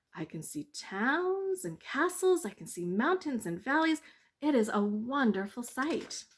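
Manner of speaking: telling of wonders, bright; bird voice. Acted.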